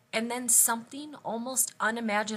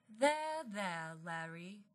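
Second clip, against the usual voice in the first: soft, falling, soothing words; comforting; 7 dB quieter, much slower than usual. Acted. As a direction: soothe him gently with a falling pitch. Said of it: "Sandra Saunderson comforted him".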